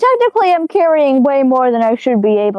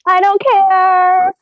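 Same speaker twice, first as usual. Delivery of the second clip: slow defiant drawl; 8 semitones higher, 5 dB louder, much slower than usual. Acted. Defiant retort.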